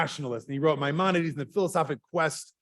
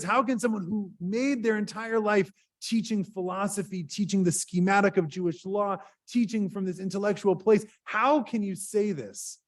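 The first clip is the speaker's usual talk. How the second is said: angry student; 5 semitones higher than usual. Retold or imitated. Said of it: "who was so angry".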